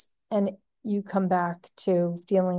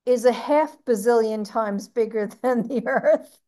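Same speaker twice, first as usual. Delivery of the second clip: laughing; 2 semitones higher than usual. Real, not acted. Laughing at sun size.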